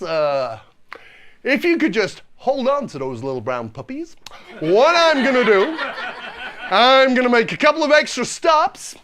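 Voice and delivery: lightly imitated driver, halting with drawn-out key words; awkwardly delicate announcement to passengers; a touch of official bus-driver patter. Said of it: "That's exactly what he said".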